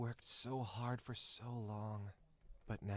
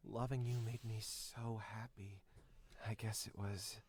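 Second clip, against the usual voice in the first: bashful Jack; faster than usual. Acted. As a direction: sound caught out and shy. Jack's voice, apologetic.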